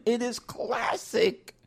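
slow, lightly distinguished voice; a hint of LeVar Burton's narration. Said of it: "very distinguished voice".

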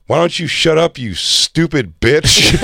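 taunting, drawn-out last word; taunting insult. Retold or imitated. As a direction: stretch the final insult out slowly as a retold jab. Taunting insult to cop, retold.

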